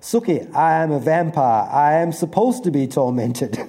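playful Southern vampire, barely voiced; old southern manner. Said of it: "Bill's old southern manner of speaking".

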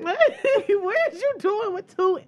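real amused incredulity; laughing disbelief. Real, not acted. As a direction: laugh while calling it absurd. Mocking the man, laughing.

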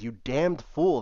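mock British scolding; angry outburst. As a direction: snap at him in disbelief. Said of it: "Oliver says".

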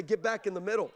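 "back" leaned on, falling to "middle"; rousing call with "back" stressed. Acted. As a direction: hit "back" hard, let the line drop. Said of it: "I'm here to wake you up and say".

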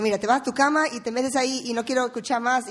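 retold stern order. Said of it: "Y ya Pedro dijo".

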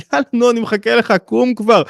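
high-pitched, coaxing nudge; acted impatient urging. God waits for the listener to get up, impatient coaxing. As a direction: urge them up with mock impatience.

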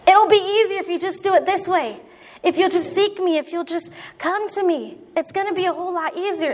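God inviting the listener to come to him; gentle voice of God. Acted. Preacher voices God speaking.

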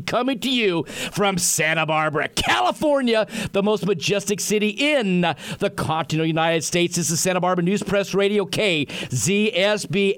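big booming show intro; radio announcer. Acted. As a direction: sell it like a showman. Radio host's opening announcement.

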